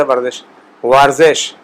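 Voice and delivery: ورزش drawn out slowly, with w like English w; slow demonstration. Shown as a demonstration. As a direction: spell it out slowly by sound. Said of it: "اب دیکھیں اس کا".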